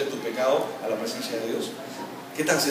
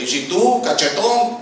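high, loud mock-quarrel retort; acted comeback insult; 7 semitones higher, 6 dB louder, much slower than usual. Spouse returning an insult in a quarrel, high loud retort. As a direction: fire it back with the voice jumping up.

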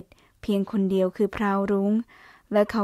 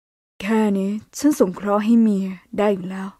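เมีย leaned on deliberately, slow and pointed; stress on เมีย. A narrator's reading. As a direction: hit the word เมีย on purpose, taunting. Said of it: "นาคิมเน้นคำว่าเมียอย่างจงใจ".

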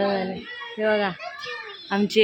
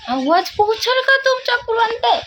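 put-on sing-song baby talk; 11 semitones higher than usual.

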